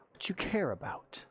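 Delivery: menacing whisper. Acted. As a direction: breathe it out as a threat. Villain's threat, unvoiced.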